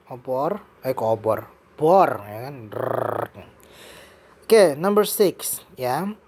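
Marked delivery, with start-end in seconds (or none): 2.7-3.4 rolled "drrrr" buzz like a power drill; imitated drill noise. Shown as a demonstration. Teacher mimics a drill to explain "bor". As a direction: buzz your lips like a drill spinning. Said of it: "we also have drill here".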